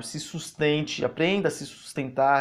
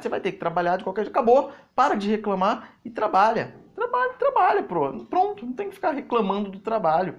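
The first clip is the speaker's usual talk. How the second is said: high, raised voice, telling someone off; exasperated scolding; 7 semitones higher than usual. Retold or imitated. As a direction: push it high and insistent, like a retold rant. Acted blunt scolding to stop complaining. (bronca exasperada, em voz aguda)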